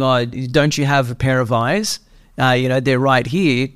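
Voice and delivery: slowed, sneering mock of a bratty brother; condescending mockery. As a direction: drag it out, talking down to mum. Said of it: "without all the extra condescending attitude".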